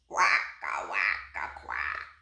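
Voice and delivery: rhythmic low duck quacks; punctuated duck snore. A narrator's reading. Duck heard from the barn.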